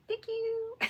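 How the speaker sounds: very high, tiny mock-grateful "Thank you"; squeaky thank you. Thanking Amy for the gifted yarn, squeaky high. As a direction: squeak it like a delighted kid.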